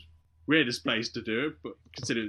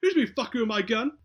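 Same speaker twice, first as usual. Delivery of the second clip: loud, higher furious demand; angry shout; 10 semitones higher, 5 dB louder than usual. Retold or imitated. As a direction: bark it like a cop whose gun was touched.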